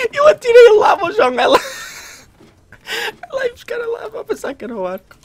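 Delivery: squeaky high voice breaking into laughter; real laughter pushing the voice way up; laughing hard. Real, not acted. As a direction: try to tell it while you can't stop laughing. Cracking up over the lava prank.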